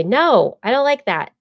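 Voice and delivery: sharp, high, firm refusal; aggressive. Shown as a demonstration. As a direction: push back hard, annoyed. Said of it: "you are aggressively not liking it".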